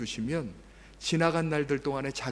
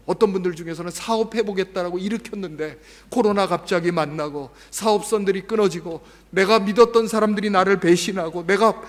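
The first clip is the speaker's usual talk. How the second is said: ordinary delivery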